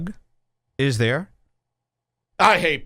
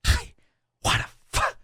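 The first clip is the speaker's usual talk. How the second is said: whispered quote. Retold or imitated. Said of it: "She goes".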